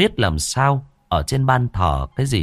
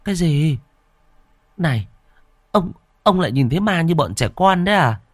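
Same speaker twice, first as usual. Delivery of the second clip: incredulous scolding; 9 semitones higher than usual. Acted. Wife scolds husband about ghosts.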